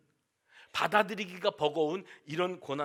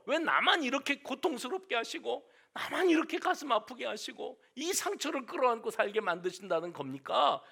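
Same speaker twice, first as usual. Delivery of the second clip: demanding why; 6 semitones higher than usual. Retold or imitated. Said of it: "하고 따져 물을 때".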